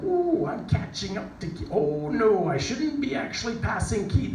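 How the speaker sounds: high, alarmed inner voice; high-pitched worried self-talk. Retold or imitated. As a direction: panic rising as you close in. Inner panic on the course.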